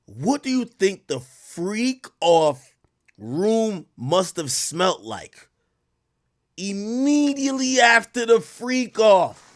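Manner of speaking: slow, stretched question; slow teasing question; drawn out. Real, not acted. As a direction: drag out every word for effect.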